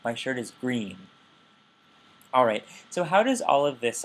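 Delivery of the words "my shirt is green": focus pitch contour on "My shirt is green"; focus intonation. Shown as a demonstration. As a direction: demo sentence with focus intonation. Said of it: "I have this pitch contour".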